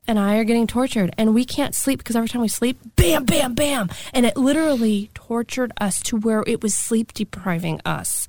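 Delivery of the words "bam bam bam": imitated banging. Imitates noises that wake them.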